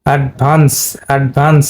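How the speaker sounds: অ্যাডভান্স with the "vaa" held long; long vowel demo. Shown as a demonstration. Teacher showing students the long vowel sound. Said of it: "ভাটা long হবে".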